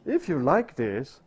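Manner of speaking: teasing Jesus. Acted. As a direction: land the joke with a grin. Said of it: "Jesus will say".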